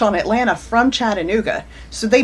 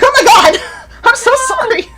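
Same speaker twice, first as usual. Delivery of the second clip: much higher, louder, breaking into laughter; laughing apology; 13 semitones higher, 6 dB louder than usual. Retold or imitated. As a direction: gasp it out through laughs, mortified. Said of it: "And I'm like".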